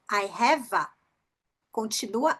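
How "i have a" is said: "have a" said as one word, "hava"; linked V and A. Shown as a demonstration. Teacher connecting A with V, linked. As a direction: glue the A onto the V of "have". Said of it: "conectar esse A com esse V".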